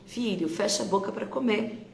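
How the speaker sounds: mother gently correcting her son at the table; calm instruction to child. Shown as a demonstration. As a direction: tell the child kindly. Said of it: "como você pode tirar o não".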